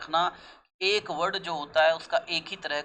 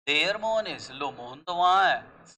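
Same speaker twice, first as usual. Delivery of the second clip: exclamation; 3 dB louder than usual. Shown as a demonstration. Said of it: "exclamation आ गया आपका".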